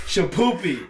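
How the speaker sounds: shouting it through laughter; laughing call-out; laughing exclaim. Real, not acted.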